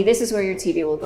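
quick teasing throwaway, fast; joking. Pretend. Host jokingly tells viewers where TV goes, teasing and fast. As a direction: rush it out as a tease you'll take back. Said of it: "I'm just kidding".

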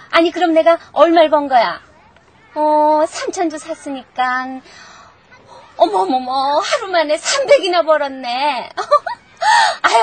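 squealing with delight over the stock; breathless, giddy joy on the phone; gasping happy shrieks; giddy excitement. Acted. Phone call, stock soared, giddy.

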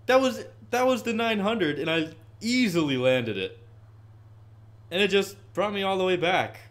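high, loud, exasperated complaint; frustrated rant. Real, not acted. Gamer ranting to his chat, high and loud. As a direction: vent loudly that it undid the trick. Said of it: "that's so frustrating".

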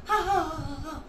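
recited ha-ha laugh, dying away; mock laugh at their expense; acted giggling. Boy giggles at the fooled villagers, acted laughter. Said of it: "He giggled at them".

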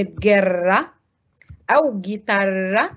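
"جرة" and "جيتارة" with hard g, no u sound; careful "جيتارة", u left silent; silent u demo. Shown as a demonstration. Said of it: "تنطق جيم لكن الأو لا تنطق".

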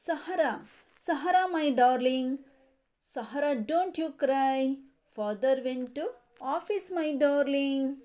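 sing-song nursery rhyme reading; rhyme recitation. Shown as a demonstration. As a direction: recite the rhyme steadily for children. Teacher reads rhyme to class. (ಮಕ್ಕಳಿಗೆ ಪದ್ಯ ಓದುವ ಧಾಟಿ)

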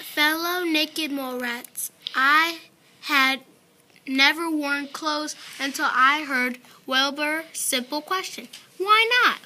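a hint of a booming old king; grand proclamation. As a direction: address the colony grandly.

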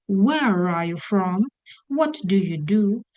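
slow rhythm, stress on "Where", "from", "What" and final "do"; sentence stress. Shown as a demonstration. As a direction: lean on "Where", "from", "What", "do", lighter on the rest. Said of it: "Copy the rhythm".

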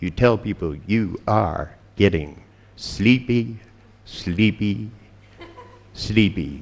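slow, mock monotone drone; monotone hypnotist. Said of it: "speak in a monotone voice".

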